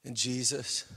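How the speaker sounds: low, soft and reverent; deep, hushed worship. Real, not acted. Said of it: "Worship's deep".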